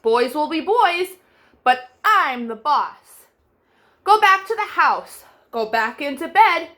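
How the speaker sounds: a hint of a cross tulip conductor shouting. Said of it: "He shouted".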